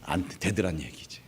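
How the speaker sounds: ordinary talk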